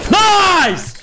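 high, loud "nice!" yelp; excited cheer. Real, not acted. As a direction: cheer the frag. Teammate gets a kill.

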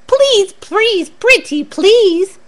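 high, slow, begging squeak of little mice; pleading mice. Acted. The mice beg Charlie to come play, pleading high and slow. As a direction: plead sweetly like tiny mice. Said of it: "pleaded the mice".

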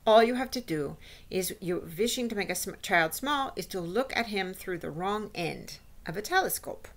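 lightly voiced witch explaining her recipe; instructing witch. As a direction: lightly play a witch lecturing her followers. Voices the Grand High Witch.

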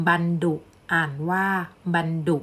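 บันดุ read "ban-du", with a d. Shown as a demonstration. Teacher reading an example to students, บันดุ with a d sound. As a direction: say บันดุ with a short second syllable starting in d. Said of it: "จะออกเสียงดอ".

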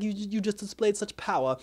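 high-pitched, imitated amazement; retold awe. Recapper quoting onlookers awed by the power, mock amazed.

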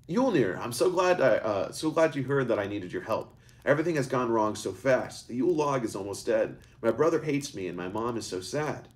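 put-on a boy blurting out everything at once; letting it all out. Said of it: "Eric let it all out".

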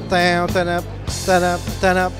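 lightly voiced "tan-anap" riff; imitated music riff. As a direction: mimic the opening notes heard on the cassette. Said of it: "puis j'entends".

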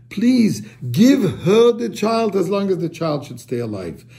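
mild retold plea, stretched on please; understated imitation of a pleading mother. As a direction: plead lightly on someone else's behalf. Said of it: "she starts pleading".

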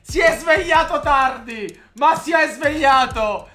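high, excited running commentary; breathless italian goal commentary. Real, not acted. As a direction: still buzzing after the goal.

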